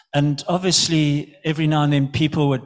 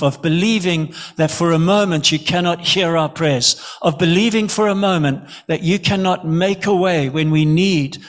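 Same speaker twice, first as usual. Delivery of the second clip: opening cry to God, then steady pleading; earnest prayer. Acted. Preacher praying to God for the congregation, earnest prayer. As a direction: pray it out to God for the church.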